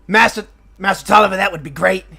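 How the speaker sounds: high, friendly apologetic gnome; smooth things over for his brother; the calmer gnome twin apologizing to the party for Mort; polite gnome brother. Acted. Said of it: "he puts his hand and goes".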